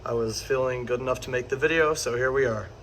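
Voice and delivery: hoarse sick voice, a bit rough. Real, not acted. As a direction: talk through a sore, sick throat. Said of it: "Excuse my voice, uh, I am a bit sick".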